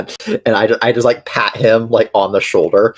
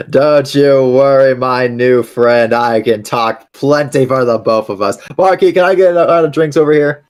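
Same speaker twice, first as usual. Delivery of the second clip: chatty, bright and eager newcomer; friendly bard; 4 semitones higher than usual. Acted. Amon the cheerful character talks.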